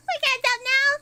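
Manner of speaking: high, loud outcry; loud protest. Real, not acted. Repeats protest much higher, louder.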